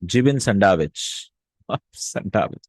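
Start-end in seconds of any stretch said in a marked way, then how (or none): 0.0-1.3 jibin said as "JI-bin" with a nasal final n, slowly; Arabic word jibin. Shown as a demonstration. Teacher modelling jibin sandwich slowly for students. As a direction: sound out jibin, then sandwich. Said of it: "translate jibin first".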